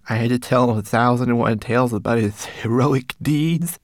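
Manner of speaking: high, small, tearful voice; a tiny servant confessing through tears; tearful little homunculus. Acted. Homunculus telling Ben his past, high tearful voice.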